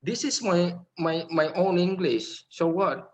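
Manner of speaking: mock defiant student standing up for his accent.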